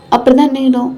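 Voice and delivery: understated huffy comeback; a touch of annoyed challenge; mildly angry. Acted. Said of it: "madam கோவத்துல இருக்கீங்க". (லேசான கோபத்துடன்)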